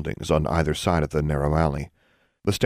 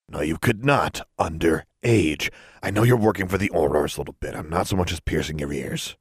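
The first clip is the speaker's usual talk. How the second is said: lightly gruff refusal; gruff shopkeeper laying down the law; gruff proprietor, refusing. Acted. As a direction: turn the kid down firmly. Story figure: proprietor refuses the girl.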